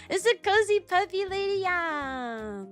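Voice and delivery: high cutesy anime voice; a sweet squeaky character voice. Acted. Cutesy aside in put-on voice.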